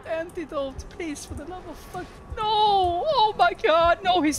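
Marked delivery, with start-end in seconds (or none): 2.4-4.4 high loud terrified cry; panicked scream. Real, not acted. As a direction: scream as it catches you. Chased, screaming.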